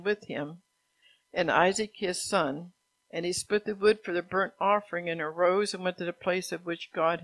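projected, even read-aloud; scripture reading. A narrator's reading. Preacher reads Abraham's story from Genesis, scripture reading. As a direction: read the Bible story out to a congregation.

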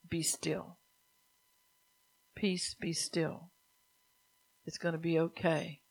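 hushed, unhurried, soothing words; soft slow divine voice. Acted. Preacher voicing God to those in a storm, soft and slow.

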